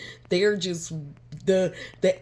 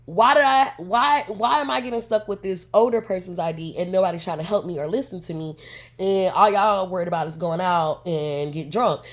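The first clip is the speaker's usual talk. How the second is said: louder exasperated complaint; frustrated; 4 dB louder than usual. Retold or imitated. Complaining to friends about the old ID, frustrated and louder. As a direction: vent like you're fed up. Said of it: "extra frustrated".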